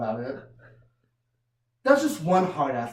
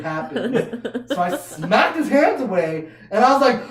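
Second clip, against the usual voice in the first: laughing; 7 semitones higher, 7 dB louder than usual. Real, not acted. Laughing through the retelling.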